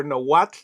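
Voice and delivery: careful native-style tl ending on Nahuatl; Nahuatl pronunciation. Shown as a demonstration. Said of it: "if you want to pronounce it correctly".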